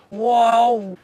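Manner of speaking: sudden high startled cry; startled whoa. Acted. Cook halting the plate before it goes out, startled. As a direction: stop them mid-move with a yelp.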